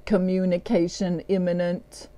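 mock robot announcement; lightly done robot voice. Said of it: "say this in a robot voice".

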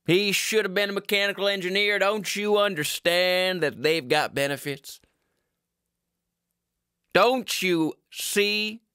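a dad begging his wife to see sense; exasperated father. Acted. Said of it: "This is my father".

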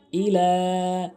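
ইলা with the final vowel lengthened; one-count stretch. Shown as a demonstration. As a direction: lengthen the end of ইলা briefly. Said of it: "এক আলিফ টেনে পড়বো". (ইলা-র লা এক আলিফ টেনে)

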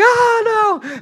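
sudden high, loud cry of alarm; mock a mother panicking over a bat; imitating a panicked mom. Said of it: "she was like".

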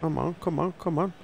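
tense, quiet urging under breath; egging himself on, hushed; psyching myself up. Real, not acted. Urging his players on.

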